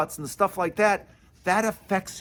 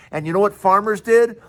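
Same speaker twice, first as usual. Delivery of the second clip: usual speaking voice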